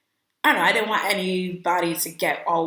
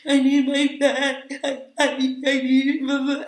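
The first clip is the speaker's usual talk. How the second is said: mild retold plea; 7 semitones higher, slower than usual. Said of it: "So I was just like".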